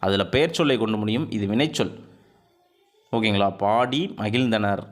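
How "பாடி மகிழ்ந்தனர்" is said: very slow, stretching பாடி for the class; very slow example. Shown as a demonstration. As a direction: drag out பாடி so the ending is heard. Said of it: "ஈ உச்சரிப்பு வருது".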